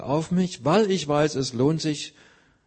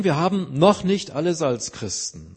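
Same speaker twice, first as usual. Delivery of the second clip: NOCH hit harder than the words after it; stress on NOCH; 3 semitones higher, 3 dB louder than usual. Shown as a demonstration. Preacher conceding Christians lack some things, stress on NOCH. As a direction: lean firmly on "noch". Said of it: "die Betonung liegt als auf dem noch".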